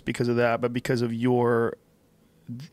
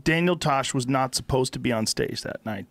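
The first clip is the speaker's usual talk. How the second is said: ordinary talk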